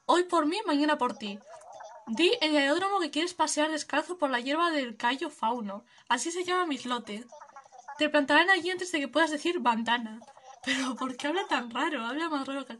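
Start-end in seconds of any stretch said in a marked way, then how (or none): 0.1-10.2 lightly voiced laid-back hippie, a bit higher; easygoing peace-and-love drifter; hippie traveller. Streamer voicing Fauno greeting the player, mellow hippie voice.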